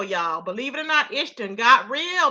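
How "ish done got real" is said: "ish done got real" stretched out slowly; slowed emphasis. Shown as a demonstration. Host stressing to chat how serious it got, slowly. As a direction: draw the phrase out.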